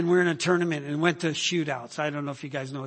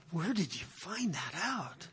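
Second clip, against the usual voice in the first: laughing question; 7 dB quieter than usual. Retold or imitated. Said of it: "I'm like".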